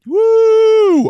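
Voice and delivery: high, loud victory whoop; real triumphant woo; whoop of joy. Real, not acted. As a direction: cheer for getting through it. Celebrating finishing the lesson.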